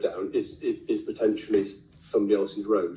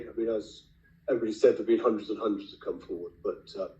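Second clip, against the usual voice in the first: losing voice; 2 semitones lower, 6 dB quieter than usual. Real, not acted. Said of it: "I'm sorry I'm losing my voice".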